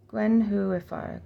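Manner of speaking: "Gwenhuifar" stressed on the HU; slow "Gwenhuifar", gwen-HOO-ee-far; emphasis on who. Shown as a demonstration. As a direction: lean on the HU in "Gwenhuifar". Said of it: "emphasis on the who".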